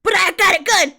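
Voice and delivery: loud, high comic quote; Senor Pelo. Acted. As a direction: shout it like a cartoon outburst. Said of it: "sometimes I quote Senor Pelo".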